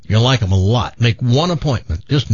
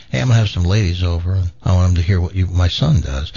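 put-on no accent, pitched lower; plain American mom; 6 semitones lower than usual. Host corrects the mom's voice, plain American, lower. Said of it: "so she said like this".

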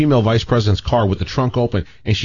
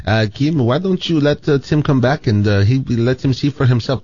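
put-on higher, hesitant French-accented voice; Pierre; 5 semitones higher than usual. Manager tells girlfriend to leave envelope, hesitant French accent. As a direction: mimic a French boss politely intervening. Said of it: "Pierre goes".

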